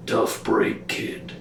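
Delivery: lightly voiced horned being; soft whispered demon taunt to the child; deep rumbling voice. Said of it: "a deep, rumbling voice say".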